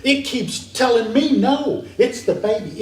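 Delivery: mildly hammed-up exasperated parent; parent going nuts. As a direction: imitate a parent at wits' end. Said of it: "the parent's going nuts".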